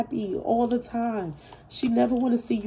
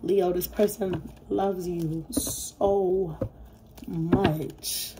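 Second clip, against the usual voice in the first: slow, tearful, holding back emotion; fighting tears while reading; choked up; much slower than usual. Real, not acted. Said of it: "I am so emotional right now".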